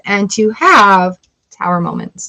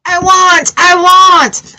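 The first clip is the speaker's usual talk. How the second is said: mock needy wanting; 9 semitones higher, 4 dB louder, much slower than usual. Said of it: "I'm not making fun of you".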